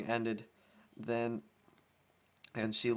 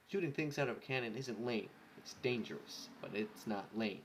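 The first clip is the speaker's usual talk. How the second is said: quiet aside; 5 dB quieter than usual. Real, not acted.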